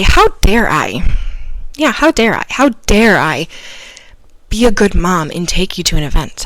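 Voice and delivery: mock the child's words with bitter irony; sarcastic retort. Mother's tempted sarcastic comeback to her screaming daughter. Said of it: "my first instinct was to say".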